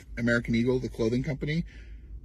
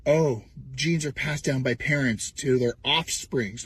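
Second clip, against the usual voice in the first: slow, pompous mock lecture; mock far-right voice; slower than usual. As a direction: lecture like a smug ideologue. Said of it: "Echoing very far right".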